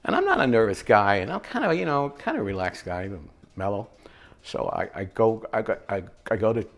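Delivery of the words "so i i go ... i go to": stuttering. Retold or imitated. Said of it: "I'm stuttering".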